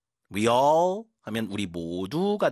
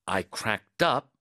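slow model reading; much slower than usual. Shown as a demonstration. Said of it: "빵 터졌다 해볼게요".

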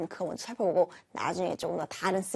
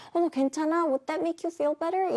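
caring concern; 7 semitones higher than usual. Shown as a demonstration. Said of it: "이런 뜻이 아니라".

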